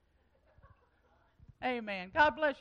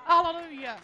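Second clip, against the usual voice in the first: loud high hallelujah; joyful shout; 5 semitones higher, 10 dB louder than usual. Real, not acted. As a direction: cry it out in praise. Congregation response shout.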